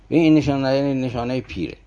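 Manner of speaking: ordinary delivery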